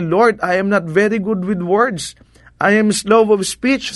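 slow, lightly voiced humble Moses; voicing Moses. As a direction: drag it out like a timid man before God. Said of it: "Pero sabi niya". (dahan-dahang boses ni Moses na nahihiya)

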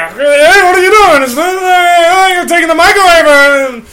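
high protesting shout. Pretend. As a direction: yelp as the mic is taken. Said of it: "Robin had to go".

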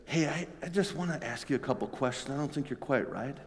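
mild, tentative mock query; a hint of a timid disciple; polite questioning. Shown as a demonstration. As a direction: ask meekly, not rebuking. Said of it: "it wasn't taking him aside".

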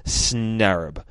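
"Snarab" sounded out slowly as SNA-rab; "Snarab" said deliberately, first syllable stressed; careful pronunciation. Shown as a demonstration. Reading a comic aloud, trying to pronounce a made-up word carefully. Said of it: "I'm gonna try to pronounce it properly".

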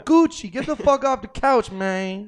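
high, loud yell at a pet tiger; playful high-pitched shout; mock shouting at pet. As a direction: holler it like a comic telling-off. Calling a pet off couch.

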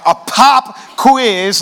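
very slow disbelieving question with the stress on pop; a stunned student repeating the bad news; shocked student. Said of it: "you're surprised".

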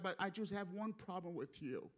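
softly voiced divine reproach; changed, softened tone. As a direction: drop the volume for a gentle rebuke. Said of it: "then the Lord changed the tone".

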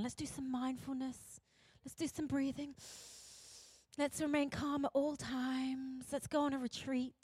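soft, soothing mock-mindfulness voice; calming. Society urging everyone to unwind, soft and calm. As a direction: gently lull them, lightly mocking. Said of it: "we love calming down".

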